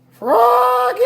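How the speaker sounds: high, loud call from the mother; mother's high ringing call. A narrator's reading. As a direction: call him from the next room. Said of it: "called his mother".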